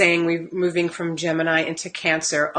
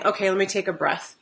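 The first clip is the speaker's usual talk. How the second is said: 1 calming; 5 dB quieter, faster than usual. Retold or imitated. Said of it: "to then saying".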